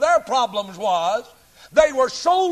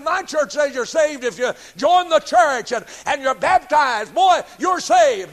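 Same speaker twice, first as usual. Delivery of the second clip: mock preacher; 4 semitones higher, 4 dB louder than usual. Mocking church member's claim.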